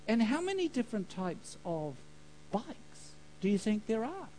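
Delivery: soft, voiced questioning as a whisper; retold whisper. God questioning a man about his vague prayer, in a retold whisper. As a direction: keep it hushed, leading the listener along. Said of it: "And the whisper said".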